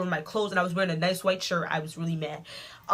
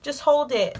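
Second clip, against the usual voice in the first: higher, slow, falsely soothing voice; a light mock of an insincere sweet secretary; fake-sweet secretary; 7 semitones higher, slower than usual. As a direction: sound caring while not caring. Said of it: "acted like she cared".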